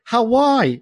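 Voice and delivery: Hawaii drawn out slowly as ha-WHY; everyday Hawaii. Shown as a demonstration. Aussie insisting on his own way, Hawaii as ha-WHY. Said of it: "If I wanna say Hawaii".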